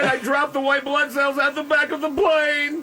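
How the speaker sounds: dumb hick sidekick voice. Pretend. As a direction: whine it like a hapless farmhand. Playing a bumbling plane worker.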